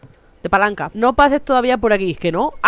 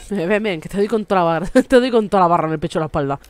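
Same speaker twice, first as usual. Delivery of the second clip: laughing mock threat; 6 semitones lower, much faster than usual. Threatening gnome with crowbar, laughing.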